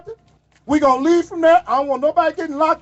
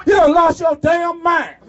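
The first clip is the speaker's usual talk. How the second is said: rally shout; 2 semitones higher, slower than usual. Real, not acted. Shouting the line to the rally crowd.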